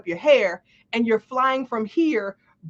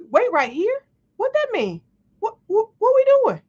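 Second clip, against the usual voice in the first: higher, louder, escalating incredulity; panicked disbelief; 10 semitones higher, 4 dB louder than usual. Retold or imitated. The long-single teller panics at "wait right here", higher and louder. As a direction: spiral into comic alarm.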